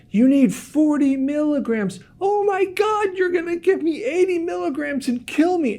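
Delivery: high, strained mock yell, slowed on forty milligrams; retold screaming doctor. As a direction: play the panicked doctor shouting high across the hallway. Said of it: "He's screaming".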